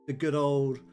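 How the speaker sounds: ordinary talk, nothing marked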